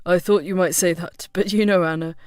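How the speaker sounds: low-pitched man, eagerly confiding; lightly voiced male friend. A narrator's reading. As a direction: caution him in a low, keen voice. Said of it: "Chris nodded eagerly".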